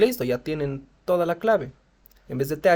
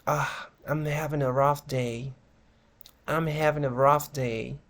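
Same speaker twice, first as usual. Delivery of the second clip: downbeat; slower than usual. Shown as a demonstration. Models downbeat answers to how are you.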